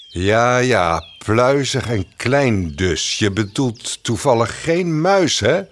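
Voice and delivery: slow, pondering bear voice; a hint of a slow-witted bear thinking aloud; slow suspicious bear. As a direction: drag it out, getting suspicious.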